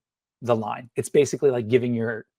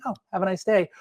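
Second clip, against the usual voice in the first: higher, bright mock-cheerful; sarcastic chirp; 7 semitones higher, faster than usual. Shown as a demonstration. Teacher demos sarcastic cheer to writers. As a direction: fake sweetness over the line. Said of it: "an actor could choose to be".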